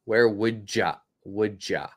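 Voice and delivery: "Would ya?" with a D sound linking into ya; casual linking; d-linked "wouldja". Shown as a demonstration. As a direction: blend "would ya" as "wood-ja". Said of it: "I can even put a D in there".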